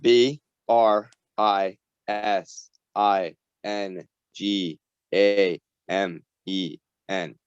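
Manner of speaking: spelled out slowly, letter by letter; slow right down, a pause after each letter. Real, not acted. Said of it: "say that way slower".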